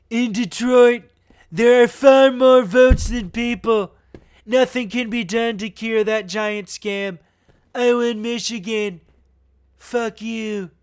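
loud, punched-out mock politician voice; Trump. Host reading a tweet out as the president, Trump impression. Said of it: "in my best Trump voice".

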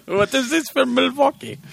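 mock Milwaukee accent. Host joking back at his cohost in mock Milwaukee accent. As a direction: stretch out a silly Milwaukee accent. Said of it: "he put on an accent".

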